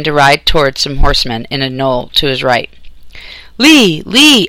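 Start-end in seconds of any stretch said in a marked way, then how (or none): 3.6-4.5 high, loud cheering call of his name; soldiers cheering. A narrator's reading. Texas soldiers cheering as Lee turns back, high loud calls. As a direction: cheer the name out across the field. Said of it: "echoed soldiers' deep voices".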